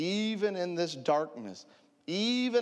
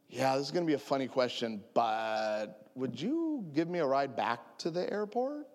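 sheepish request. Retold or imitated. Robbed man asks robbers for a ride, sheepish. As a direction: ease into the awkward favor gingerly.

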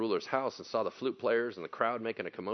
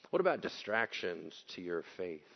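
ordinary delivery

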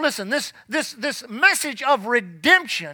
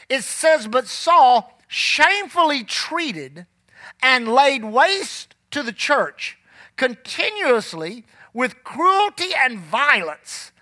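scripture reading. Acted. Reads scripture slowly.

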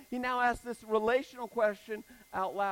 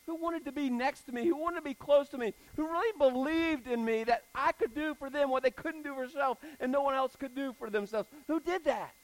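higher and louder, pressing each question; preaching build; 6 semitones higher, 4 dB louder than usual. Acted. Preacher pressing the congregation, higher and louder each question. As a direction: drive the questions home to the crowd. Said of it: "y'all don't get it".

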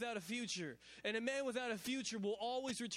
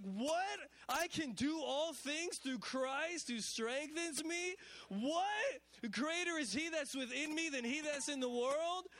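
higher, excited astonished reading; as if discovering scripture for the first time; amazed disbelief; 5 semitones higher, slower than usual. Retold or imitated. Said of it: "we're like".

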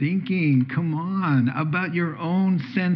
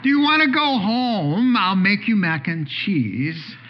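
coaxing grandpa; 5 semitones higher than usual. Acted. Grandpa offering mac and cheese.

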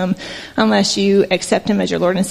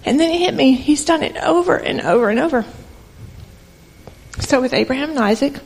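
emotional; 2 semitones higher than usual. Real, not acted. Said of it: "this is probably where I get emotional".

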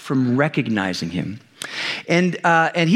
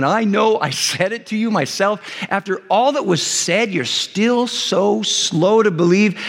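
mildly exasperated acted telling-off; mock reproach, drawing out the last words; scolding; 3 semitones higher than usual. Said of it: "this tone of like he's scolding".

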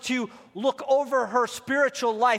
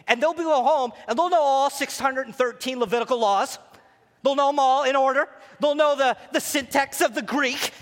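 excited; 5 semitones higher, 4 dB louder than usual. Real, not acted. Excited about women's knowledge.

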